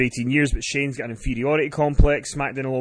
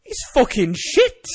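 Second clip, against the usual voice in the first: high-pitched heckling impression; cackling heckler, mocking and pitched up; Finn Martin; 10 semitones higher, 4 dB louder, slower than usual. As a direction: imitate a gleefully scornful heckle. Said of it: "That's an excellent Finn Martin impression".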